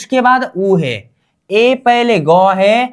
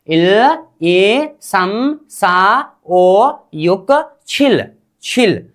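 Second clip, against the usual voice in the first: slow count with every number stretched; teacher's drawn-out repeat-after-me recital; pronunciation drill; much slower than usual. Shown as a demonstration. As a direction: draw out each syllable for learners to follow. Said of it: "इसका उच्चारण कीजिए तो".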